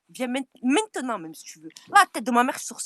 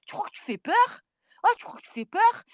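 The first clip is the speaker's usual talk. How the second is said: mocking taunt; 11 semitones higher, 4 dB louder than usual. Real, not acted. Taunting a rival in a feud.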